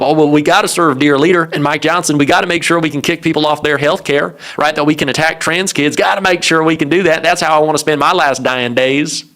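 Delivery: sarcastic, put-on Southern voice; lightly hammed-up Southern accent for a mocking quote. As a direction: play an eager loyalist with a touch of Southern accent. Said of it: "why he has a Southern accent".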